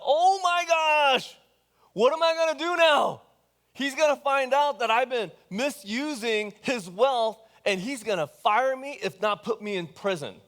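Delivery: high, loud panicked blurt; freaking out. Retold or imitated. Manager panics at being caught by his master, hammed-up alarm. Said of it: "And the manager freaks out".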